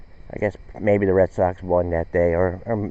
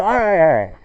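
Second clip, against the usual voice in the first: more frustrated teacher; 2 semitones higher than usual. Retold or imitated. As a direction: bite back the frustration and try apples. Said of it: "she's getting more frustrated".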